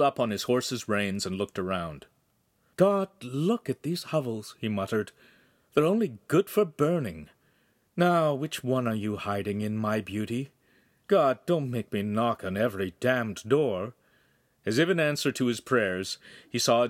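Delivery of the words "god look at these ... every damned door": lightly voiced haughty nobleman, scornful; a hint of a disdainful lord grumbling to himself; arrogant noble.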